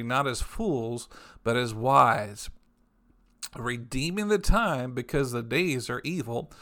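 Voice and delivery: slow, solemn reading of scripture. Acted. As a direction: read each phrase out slowly, with weight. Reads King James scripture aloud.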